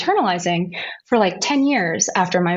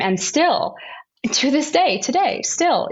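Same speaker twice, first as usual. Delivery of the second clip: hushed whisper; 6 semitones higher, slower than usual. Real, not acted. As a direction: whisper it, higher and pointed. Emphatic point about pro-choice stigma.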